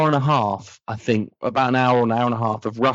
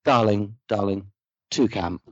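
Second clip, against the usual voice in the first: mock director; 4 semitones lower than usual. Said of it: "the director pops in and goes".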